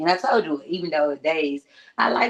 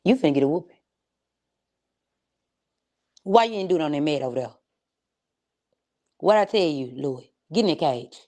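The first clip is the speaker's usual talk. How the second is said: scolding yell. Real, not acted. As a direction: yell across the room at a misbehaving pet. Scolding Louis off mic.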